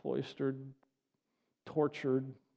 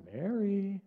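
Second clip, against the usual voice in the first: higher, drawn-out calling of a name; imagined gentle call; 5 semitones higher than usual. Acted. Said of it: "I can almost hear".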